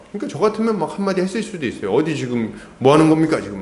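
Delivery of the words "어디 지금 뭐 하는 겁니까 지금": a hint of an indignant rebuke; mock rebuke. Preacher imagining Gideon rebuking the tribe, mock indignation. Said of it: "막 이렇게".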